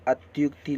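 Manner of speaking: अत्युक्ति with a short u in "tyuk"; short u-sound in अत्युक्ति; correct pronunciation. Shown as a demonstration. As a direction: say अत्युक्ति with u, not o. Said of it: "लिखा जाएगा और पढ़ा जाएगा".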